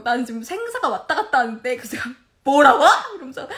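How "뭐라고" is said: explosive, much louder indignant outburst; retold fury. Wife on the phone to scolding husband, retold fury. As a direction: fire back in outrage, re-enacting. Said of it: "너무 개빡치는 거예요".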